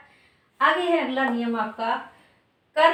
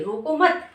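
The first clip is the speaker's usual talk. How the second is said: रोको मत run together, raised and louder; रोको मत as one group; 4 semitones higher, 5 dB louder, slower than usual. Shown as a demonstration. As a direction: join मत firmly to रोको. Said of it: "यानी थोड़ा सा हम रुके". (रोको मत एक साथ, ज़ोर से)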